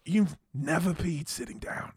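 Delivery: incredulous British friend, imitated; lightly voiced British impression; British accent. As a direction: ask it in disbelief with a British accent. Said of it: "he's got that British accent".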